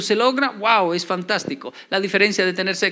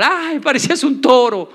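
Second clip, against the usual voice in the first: gushing woman, higher and louder; mock porn actress; 6 semitones higher, 6 dB louder than usual. Mujer del porno responde. (la actriz porno halaga al hombre, exagerada, más aguda y fuerte)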